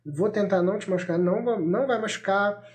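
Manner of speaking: put-on steady, unhurried parent talking a child through it; calm, no-negotiation parental tone; calm but firm. Shown as a demonstration. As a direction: demonstrate gentle, reassuring firmness without raising the voice. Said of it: "o tom de voz é".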